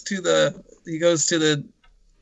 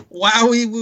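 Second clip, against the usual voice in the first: laughing mock wowie; 4 semitones higher than usual. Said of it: "laughing mock exclamation".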